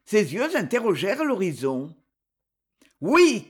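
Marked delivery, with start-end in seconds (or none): 3.0-3.5 happy cry. A narrator's reading. Boy is sure it is his friend, happy cry. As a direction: burst of happiness, higher and louder. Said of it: "cria-t-il avec une nouvelle explosion de bonheur".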